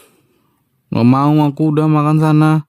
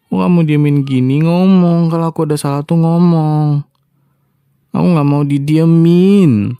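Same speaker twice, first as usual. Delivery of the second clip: pleading to talk; 3 semitones higher than usual. Acted. Wife begs silent husband to talk.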